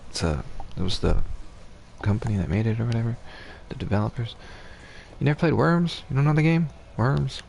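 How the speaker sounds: incredulous. Real, not acted. Shocked friend never played Worms.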